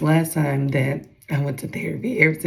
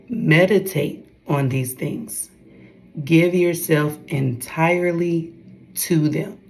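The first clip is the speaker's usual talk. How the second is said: scripture reading. Acted. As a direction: read the verse with weight. Reads scripture aloud.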